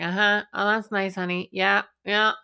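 breezy, absent uh-huhs; half listening. Retold or imitated. Parent on the couch watching TV, half listening. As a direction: brush the kid off without looking up. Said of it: "we're sort of half listening".

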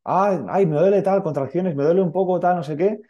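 high pained moans from the wife; imitating wife in pain. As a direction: mimic her groaning through contractions. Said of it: "Se va al baño".

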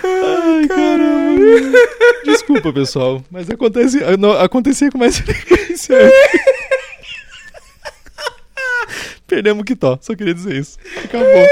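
very high, wheezing laugh-talk; sob-laughing apology; crying with laughter. Real, not acted. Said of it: "E temos o primeiro ataque de riso ao vivo".

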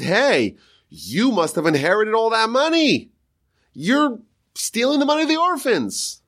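high, needling voice of friends accusing him. Retold or imitated. Friends accusing Shmuel of stealing the orphans' money, high mock jeer. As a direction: throw the blame at him like a jeering friend.

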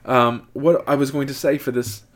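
mock British drifting toward Irish; British accent slipping. Host losing the ad thread, British accent slipping Irish. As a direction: stumble along in a wobbly British accent. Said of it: "break out into a more Irish accent".

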